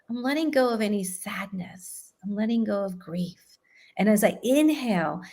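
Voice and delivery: calm, measured breathing-exercise guidance; guided meditation. Acted. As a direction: lead them gently through each breath.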